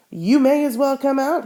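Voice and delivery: frowning. Acted. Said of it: "he said with a frown".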